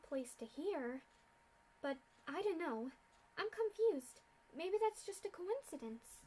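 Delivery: lightly voiced bewildered pony; confused pony. Character confused about the journey.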